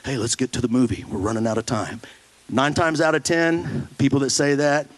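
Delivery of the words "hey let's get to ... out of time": mock offhand promise. Pastor mimicking a careless believer, offhand and hurried. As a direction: toss off the prayer promise and hurry on.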